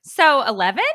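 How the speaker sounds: light, loud, friendly asking tone; innocent bright query. Pretend. Wife rereads the text as a cheery innocent question. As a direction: make it a harmless question. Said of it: "let's read it how it was intended".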